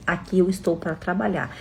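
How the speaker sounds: imitating a cold, calculating employee; холодно и расчётливо. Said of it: "E muito fria e calculista".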